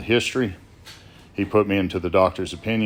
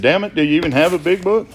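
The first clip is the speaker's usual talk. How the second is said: exasperated; 10 semitones higher, 6 dB louder than usual. Retold or imitated. Sponsor loses patience.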